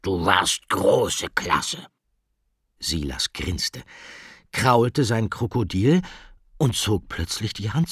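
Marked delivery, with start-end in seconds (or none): 0.0-1.9 very slow, drawn-out creature voice; enthusiastic crocodile. A narrator's reading. Crocodile Rick praises Silas after the test, slow enthusiastic drawl. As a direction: savour the praise, stretching every word. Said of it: "Rick war begeistert".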